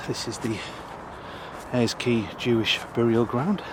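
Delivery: panting, breathless announcement; out of breath. Real, not acted. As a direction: say it while catching your breath. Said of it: "sorry, I'm out of breath".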